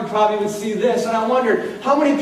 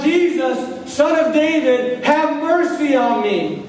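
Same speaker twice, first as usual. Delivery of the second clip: retold cry out; 5 semitones higher, slower than usual. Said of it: "He cried out".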